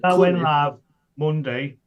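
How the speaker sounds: tinny, all treble, no bass; metallic voice filter. Real, not acted. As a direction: sounds like he's in a tin can. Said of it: "you sound like you're in the fucking tin can".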